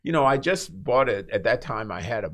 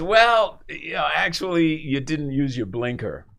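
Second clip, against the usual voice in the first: imitating the officer; 3 semitones higher than usual. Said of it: "he goes".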